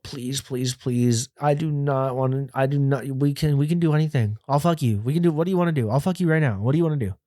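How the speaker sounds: mock desperate plea; retold begging. Teen bargaining with lady cop, retold begging. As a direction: plead insistently, acting out your younger self. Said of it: "absolutely begging this lady cop".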